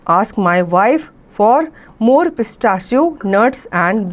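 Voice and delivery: very slow, careful read-aloud of an English story. A narrator's reading. Teacher reading the story to students, very slow and clear. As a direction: read each phrase slowly so the class can follow.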